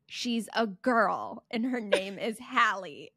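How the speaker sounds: slow, emphatic mock annoyance; imitating annoyed mom. Mom correcting the pestering little boy, annoyed. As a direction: spell it out slowly, like a fed-up mother. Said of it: "Mom would get so annoyed".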